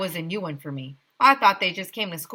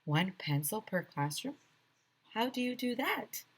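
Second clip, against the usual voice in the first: stunned whisper; 3 semitones higher, 9 dB quieter than usual. A narrator's reading. Kid's shocked question.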